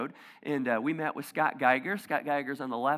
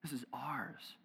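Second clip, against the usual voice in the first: hushed, greedy whisper; mock territorial church voice, whispered; possessive whisper; 4 semitones lower, 7 dB quieter, slower than usual. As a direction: whisper it like guarding a treasure. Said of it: "to say".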